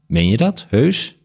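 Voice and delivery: measured literary read-aloud with lightly voiced dialogue; story narration. A narrator's reading. Author reading a bat story fragment to the interviewer, story narration. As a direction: read the tale aloud with deliberate phrasing.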